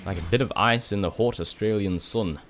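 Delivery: accidental, slightly Scottish-sounding accent; a hint of botched Scottish; bad Scottish accent. Real, not acted. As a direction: slip into a poor Scottish accent. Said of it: "said in a bad Scottish accent".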